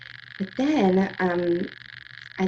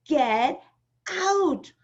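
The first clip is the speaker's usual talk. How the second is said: higher, louder order to leave; yelling; 7 semitones higher, 4 dB louder than usual. Retold or imitated. Mother ordering teens out of the wedding, yelling. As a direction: bark it out at the crowd. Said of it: "I was like".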